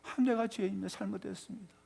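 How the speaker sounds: softly acted tearful repentance, fading away; tearful confession. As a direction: confess as if weeping, voice sinking to very soft. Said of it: "그냥 불고 울어요".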